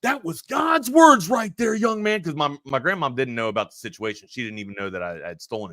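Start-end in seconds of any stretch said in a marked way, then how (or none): 0.0-2.2 high, slow, booming preacher-like shout; loud, drawn-out mock sermon shout; dad's shout. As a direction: proclaim it like a stern father hammering the lesson home. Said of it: "my dad just looks up and shouts".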